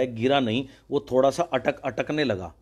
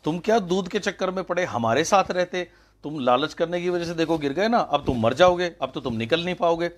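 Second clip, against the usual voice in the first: higher, mocking scold from the know-it-all frogs; 5 semitones higher than usual. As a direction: lecture the fallen frog like a smug busybody. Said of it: "उन्होंने कहा".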